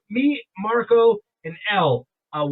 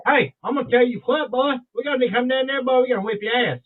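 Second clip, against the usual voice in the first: put-on Southern accent; 5 semitones higher, 3 dB louder, faster than usual. Host imitating a guy from Missouri to friends, mock-threatening Southern accent. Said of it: "what a guy from Missouri told me".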